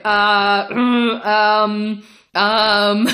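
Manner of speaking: loud, drawn-out stalling; searching memory frantically. Retold or imitated. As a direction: stall with strained filler sounds, mind blank. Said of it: "I'm frantically searching my memory".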